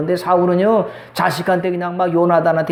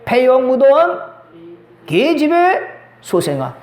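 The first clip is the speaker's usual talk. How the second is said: raised-pitch, drawn-out scolding; mock angry father; 5 semitones higher, slower than usual. Saul cursing his son Jonathan, mock angry. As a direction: imitate an angry father's insult. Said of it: "아들한테 화내서 뭐라고 말해요?".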